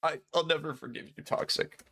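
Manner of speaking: sad voice. Acted. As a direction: play it like a mock tearful goodbye. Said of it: "I think that's my sad voice".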